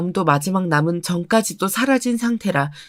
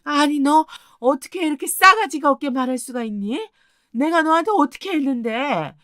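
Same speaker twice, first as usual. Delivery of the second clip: higher-pitched shrill-free scolding mother-in-law voice; higher, accusing mother-in-law on the phone; angry mother-in-law; 6 semitones higher than usual. Acted.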